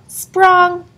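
high, springy exclamation; bouncy sound word. A narrator's reading.

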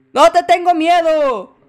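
slow, defiant, puffed-up brave words; fake bravado. Streamer taunting the ghost with fake bravado. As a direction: pretend to stand up to the ghost. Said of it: "sí te tengo miedo".

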